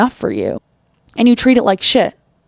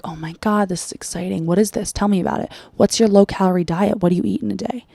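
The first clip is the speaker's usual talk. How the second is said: mock gushing hush; 5 dB quieter than usual. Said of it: "they're like".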